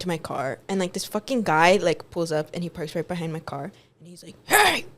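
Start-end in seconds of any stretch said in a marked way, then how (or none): 4.5-4.8 high, sudden "hey"; retold shout to get attention; calling out. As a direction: call out to someone across a car park. Acting out a man calling out.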